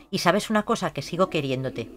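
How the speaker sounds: hushed loving words; tender confession. Acted. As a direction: murmur a lover's confession. Voicing sims' love confession.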